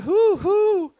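high, loud owl hooting. Retold or imitated. Owl calling down to the traveller, high hoots. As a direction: hoot like a forest owl.

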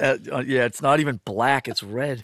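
talking with a mouthful of food; chewing while answering; mouth full. Real, not acted. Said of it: "you're talking with your mouth full".

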